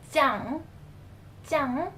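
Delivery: "jiang" begun with a tight J; isolated "jiang" with a firm J; tense J sound. Shown as a demonstration. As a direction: model "jiang" alone, J up front, ending on a rise. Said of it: "the J sound".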